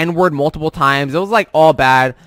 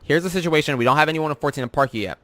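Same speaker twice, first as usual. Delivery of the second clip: soft, quick mock-courteous reply; respectful explanation; 5 dB quieter, faster than usual. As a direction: imitate a calm, polite attendant. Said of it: "came to us respectfully".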